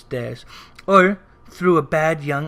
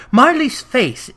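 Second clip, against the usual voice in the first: much higher, louder, slow shocked cry of Marley's; startled exclamation; 7 semitones higher, 6 dB louder, slower than usual. A narrator's reading. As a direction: burst out with it as if seeing the face yourself. Narrator repeats in shock.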